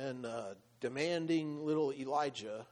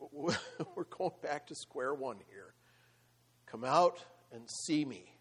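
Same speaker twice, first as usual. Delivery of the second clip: a hint of God calmly resetting things; God's voice. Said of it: "But God's like".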